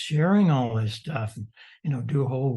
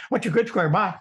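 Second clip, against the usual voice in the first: quick, higher-pitched mimicked radio contact; lightly mocking imitation; mock rushed operator; 4 semitones higher, faster than usual. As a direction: imitate a brusque contester signing straight off. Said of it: "Today, it's like".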